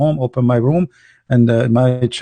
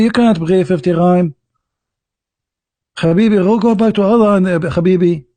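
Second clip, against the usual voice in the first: throaty r's in a put-on Israeli accent; Musa, Israeli accent; 2 semitones higher than usual. Musa telling Muhammad to go back to Allah, mock Israeli accent. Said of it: "But you wanna hear Israeli accent".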